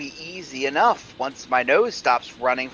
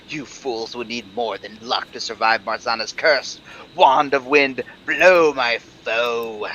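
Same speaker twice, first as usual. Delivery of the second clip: sneering panto villain; 3 semitones lower, 5 dB louder than usual. Acted. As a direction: cast the spell with a sneer. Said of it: "as he gloats".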